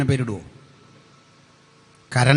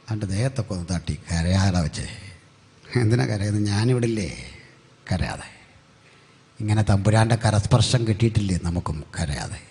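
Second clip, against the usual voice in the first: lower, hushed comfort; gentle consoling; 3 semitones lower than usual. Acted. God pats weeping Moses, gentle consoling. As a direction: soothe someone who is crying.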